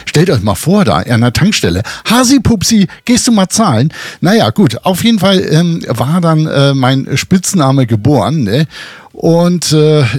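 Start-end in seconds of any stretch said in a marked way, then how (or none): 2.1-3.9 high, sing-song call of a wife across the petrol station. Retold or imitated. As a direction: call him by the pet name in a much higher voice. Wife calls him at petrol station.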